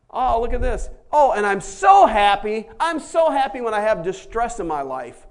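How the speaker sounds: loud, hammed-up delight; mock giddy joy; overjoyed. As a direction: gush with exaggerated happiness. Mock ecstatic sufferer.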